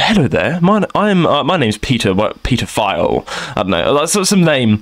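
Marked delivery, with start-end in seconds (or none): 0.0-3.2 lower-pitched, mildly posh British phone manner; posh caller voice. Retold or imitated. Caller introducing himself on the phone, mock posh accent. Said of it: "the posh voice".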